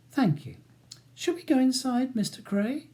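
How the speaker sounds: high, polite feminine lilt; sweet. A narrator's reading. Woman barrister steering Ronnie inside, sweet. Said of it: "smiles at Charles sweetly".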